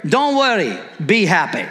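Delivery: badly faked Jamaican lilt, dropping low; joking stab at a Jamaican accent; terrible Jamaican accent. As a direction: have a bad go at a Jamaican accent. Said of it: "That was a terrible Jamaican accent".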